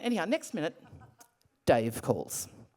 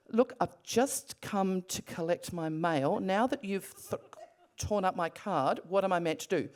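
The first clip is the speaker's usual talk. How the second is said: keeping calm. Retold or imitated. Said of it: "keep calm".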